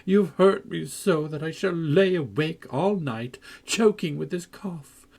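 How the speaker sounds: high, plaintive moaning complaint; self-pitying wail. A narrator's reading. Linton reproaching Cathy, high and plaintive. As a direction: wallow in self-pity. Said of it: "began to wail aloud".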